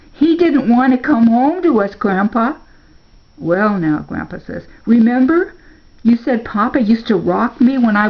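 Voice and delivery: a hint of a hurt boy asking his grandpa; hurt boy's plea. A narrator's reading. Narrator voicing the boy Spark.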